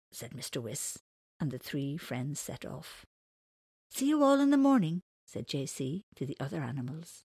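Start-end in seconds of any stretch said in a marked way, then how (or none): 3.9-5.0 high, loud cheerful farewell; calling out. Acted. JC says goodbye to the animals, calling out. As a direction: call it across to everyone.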